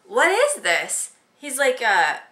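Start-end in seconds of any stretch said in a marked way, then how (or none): 0.1-1.1 slow, louder, puzzled what is this; confused. Retold or imitated. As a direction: turn it over baffled. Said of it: "and he's like".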